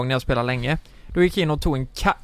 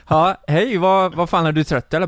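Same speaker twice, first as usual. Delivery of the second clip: puzzled loud greeting; 3 semitones higher, 4 dB louder than usual. Retold or imitated. Own loud greeting to whisperer.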